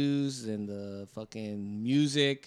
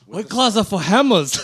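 laughing; 8 semitones higher, 12 dB louder than usual. Real, not acted. Repeating clip, laughing.

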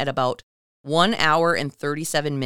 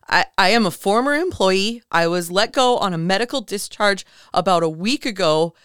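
near tears, mildly voiced; 4 semitones higher, 5 dB louder than usual. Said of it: "on the verge of tears or panic".

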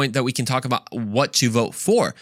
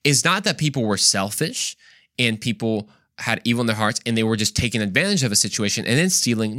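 usual speaking voice

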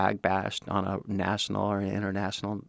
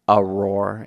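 roar; 7 dB louder than usual. Shown as a demonstration. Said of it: "it started like a whisper, and then it became".

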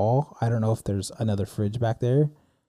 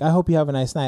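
mildly passive-aggressive retold farewell; a polite goodbye with a slight edge; 3 semitones higher, faster than usual. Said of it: "we both passive aggressively basically said that".

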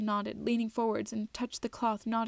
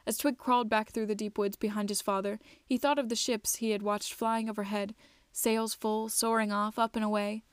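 measured storybook narrator; unhurried audiobook-style telling; story narration. A narrator's reading. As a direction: read it out evenly, phrase by phrase. Reads the story aloud.

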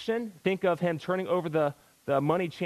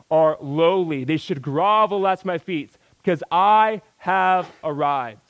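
mock arrogance; 7 dB louder, slower than usual. Mocking a proud promoted worker.

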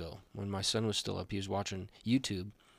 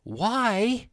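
drawn-out setup; 12 semitones higher, 7 dB louder than usual. Acted. Dad joke setup.

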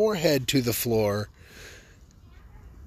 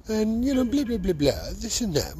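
mock proper lady; 9 semitones higher than usual. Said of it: "she's all very proper".

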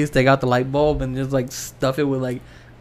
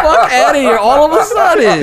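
laughing; 9 semitones higher, 7 dB louder than usual. Real, not acted. Laughing disbelief at friend.

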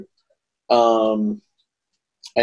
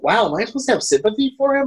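incredulous aside; 8 semitones higher, much faster than usual. Retold or imitated. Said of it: "you're like".

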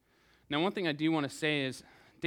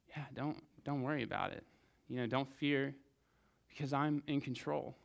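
much softer, calm comfort; soft reassuring Jesus; 6 dB quieter than usual. Acted. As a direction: hush the worried disciples gently. Jesus calming worried disciples.

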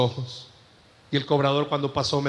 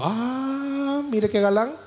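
mock teasing voice with a rise; teasing divine voice; 6 semitones higher, much slower than usual. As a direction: tease him playfully as the Spirit. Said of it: "el Espíritu Santo me ministró y me dijo".

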